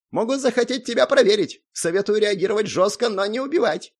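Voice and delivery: high-pitched, urgent advice; concerned Zak. A narrator's reading. Zak advising the hero how to react, concerned. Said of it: "обеспокоенно произнёс Зак".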